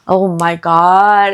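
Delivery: slow, whispered gasp of shock. Real, not acted. Vlogger reacting to the crush, slow shocked whisper. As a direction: hush it out in disbelief.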